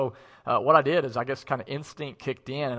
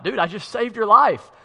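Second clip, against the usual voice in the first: put-on exasperated teen shout; 5 semitones higher, 8 dB louder than usual. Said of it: "I'm still crying, and I'm like".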